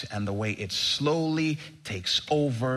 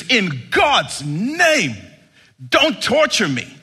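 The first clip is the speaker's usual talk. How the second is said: begging; 8 semitones higher, 8 dB louder, slower than usual. Acted. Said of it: "Begging Jesus now".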